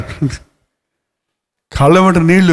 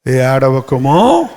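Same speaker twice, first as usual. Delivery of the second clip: slow drawn-out word; 6 semitones lower, much slower than usual. Shown as a demonstration. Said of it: "ఆ?".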